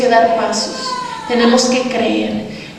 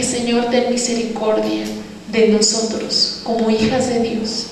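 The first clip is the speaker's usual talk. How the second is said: soft, subdued plea to God; hushed prayer; 3 semitones lower, 6 dB quieter than usual. Retold or imitated. Woman praying for mercy on the sisters, hushed prayer. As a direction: pray it quietly, voice sinking.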